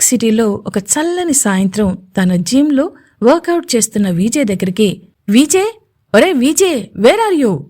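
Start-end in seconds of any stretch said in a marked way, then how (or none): 5.3-7.6 shouting. Acted. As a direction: call out to a friend from a distance. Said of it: "అని అరుస్తూ". (అరుస్తూ పిలవడం)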